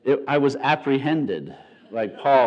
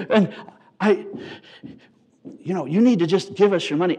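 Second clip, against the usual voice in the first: a hint of an eager, louder husband; lightly voiced beaming dad; missionary father; 5 dB louder than usual. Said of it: "the father says".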